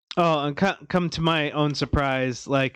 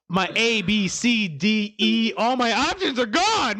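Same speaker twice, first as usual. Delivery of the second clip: mock panic; 6 semitones higher than usual. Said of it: "I'm like".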